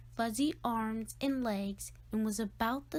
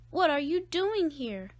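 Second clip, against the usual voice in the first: surprised; 5 semitones higher, 5 dB louder than usual. Acted. Family surprised he came home.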